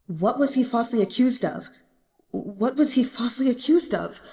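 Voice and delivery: hoarse, mumbled under breath; hoarse mumbling. Acted. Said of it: "Gumang mumbled. His voice was hoarse".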